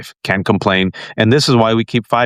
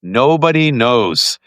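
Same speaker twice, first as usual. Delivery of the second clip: slow, drawn-out punchline; mock mystery; much slower than usual. Real, not acted. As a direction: stretch it out like a great mystery. Mock-mystery punchline about Danielle's age.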